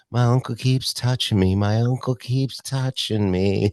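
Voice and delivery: 1 calm deadpan joke. Retold or imitated. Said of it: "so laid back and calm".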